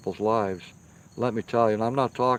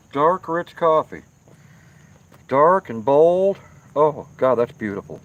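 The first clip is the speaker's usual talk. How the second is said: savoring; 2 semitones higher, 5 dB louder than usual. Real, not acted. Savoring fresh coffee on stream.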